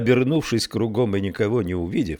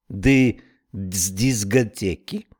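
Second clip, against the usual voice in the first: slow Irish exclamation; lightly voiced Irish snail; Irish accent; slower than usual. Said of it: "воскликнула улитка".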